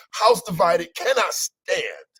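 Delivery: slow, solemn preacher cadence; preaching. Acted. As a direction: deliver it like a sermon line. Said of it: "Is he preaching?".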